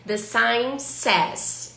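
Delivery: very slow, word by word; very slow repeat. Shown as a demonstration. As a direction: stretch every word for learners. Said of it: "A placa diz".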